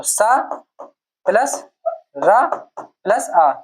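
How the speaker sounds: slow, stretched letter breakdown; spelled out slowly. Shown as a demonstration. Teacher spelling out letters for students. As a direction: draw out each part. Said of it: "spelling out the letter".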